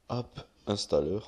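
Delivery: "App Installer" said with a heavy French accent, English read the French way. Real, not acted. Minecraft tutorial host naming the app to his viewers, French-accented English. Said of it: "Vous avez vu mon accent, c'est du caca".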